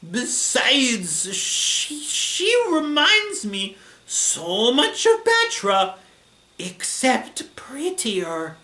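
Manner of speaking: put-on slow, drawn-out Italian accent, pitched high; hammy, halting Italian-accented pining; Ghidorah. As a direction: drag out every word in an Italian accent. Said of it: "every letter of each of his words".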